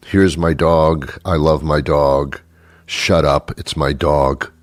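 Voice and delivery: low, stubborn dog-owner voice; mildly belligerent. Acted. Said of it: "They're belligerent".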